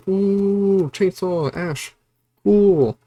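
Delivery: high, thrilled fangirl squeal of delight; excited fan. Retold or imitated. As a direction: gush over the chainsaw like a giddy fan. Viewer reacting to finding chainsaw.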